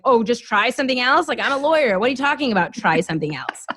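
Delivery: mock disbelief, sarcastic; eye-rolling sarcastic retort; eye-rolling scoff. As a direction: scoff at the idea as if it were absurd. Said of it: "rolling my eyes and be like".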